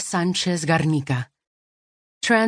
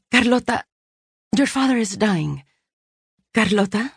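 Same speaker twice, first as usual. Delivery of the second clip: sister's voice; 6 semitones higher than usual. Acted. Sister breaks news of dying father.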